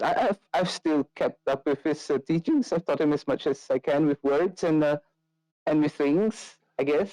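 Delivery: sheepish. Acted. Irina reports on teaching the kid, sheepish. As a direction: stammer a little, unsure of yourself. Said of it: "looks at you sheepishly afterwards".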